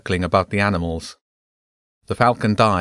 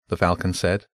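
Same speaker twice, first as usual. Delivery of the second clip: plain reading voice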